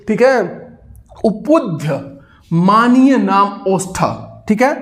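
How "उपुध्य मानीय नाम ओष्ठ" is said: drawn-out slow sutra; slow it down so they memorise; slow chant; slow recitation. Shown as a demonstration. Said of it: "आप बोलिए उपुध्य".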